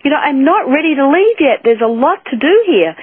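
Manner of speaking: pleading not to leave yet, half acted; panicked plea. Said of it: "freaking out here".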